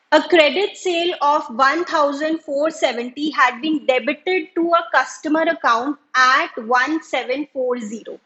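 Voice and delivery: reading the exam question aloud, very slow and deliberate; slow, careful dictation of a textbook problem. Acted. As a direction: dictate the question word by word to the class. Teacher reads the exam question aloud.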